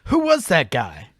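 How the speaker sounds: villain in a panic. Acted. Henchman to boss in the fleeing truck, alarmed.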